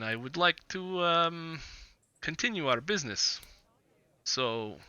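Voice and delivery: lightly voiced Vistani trader, measured and hesitant; Vistani businessman. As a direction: play a guarded businessman, feeling out each phrase. Game master voices Vistani businessman.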